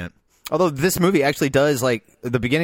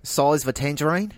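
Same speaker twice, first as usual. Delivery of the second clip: tentative try at an Australian accent. Shown as a demonstration. Co-host tries friend's trick phrase, Australian accent. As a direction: copy the Australian accent, rising like a question. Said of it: "a way to get to the Australian accent".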